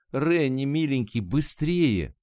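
повыше, упрашивая поторопиться; взволнованно подгонять; нетерпеливая мольба. A narrator's reading. Тон торопит Ренни. (ласково и нетерпеливо упрашивать)

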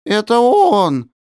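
high, slow stunned echo; echoing in awe. A narrator's reading. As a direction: echo it in disbelief. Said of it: "Словно эхо проронили". (ошеломлённое эхо)

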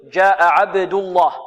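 عبد الله with a thick, emphatic lam in الله; teacher demonstrates the heavy lam; heavy Allah demo. Shown as a demonstration. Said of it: "تقول".

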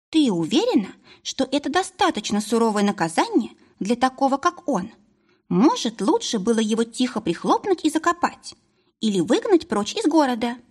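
a hint of a small creature suggesting harsh punishment; Pescun's voice. Pescun speaks, a distinct figure.

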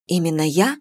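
tired, understated question; weary resignation. A narrator's reading. Mother answering her shouting daughter, weary and resigned. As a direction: ask it with resigned weariness. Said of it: "с усталой обречённостью".

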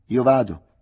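"Addio" chiamato forte e più acuto, verso lontano; gridato. A narrator's reading. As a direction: chiamare a distanza verso la hutte. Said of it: "gridò quindi". (Micol saluta Malnate gridando)

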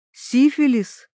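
ordinary delivery

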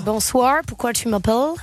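put-on English accent. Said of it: "avec un accent british".

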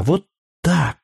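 put-on high childish hug-talk; a child squeezing tight, eager; a lightly voiced eager little girl. A narrator's reading. Child hugging, promising.

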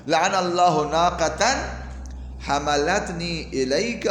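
firm, slowing mock-angry curse; retold anger. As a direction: recite the angry curse with mild force. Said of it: "جواب میں غصے میں آ کر". (ہلکے غصے کی نقل)

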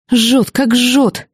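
медленно, сквозь боль; выдавить, будто горло горит; боль и жжение. A narrator's reading. Героиня горит изнутри. (тянет слова от жгучей боли)

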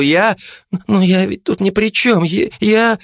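high, fluttering protest; flustered excuse. Acted. Кулебяка оправдывается перед Жанной, высоко и сбивчиво. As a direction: scramble to defend yourself. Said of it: "начал оправдываться Кулебяка".

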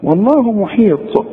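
والله محيط high and slow; careful recitation. Shown as a demonstration. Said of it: "طلعها طاء".

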